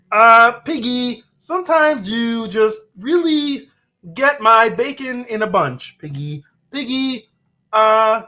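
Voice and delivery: high, slow frog-puppet voice; angry Kermit. Acted. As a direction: play a frog puppet fed up with his pig girlfriend. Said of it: "Kermit angry at Piggy".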